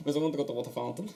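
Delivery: mimicking a Portuguese accent in English; lightly put-on Portuguese accent, for laughs. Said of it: "need to do a Portuguese accent".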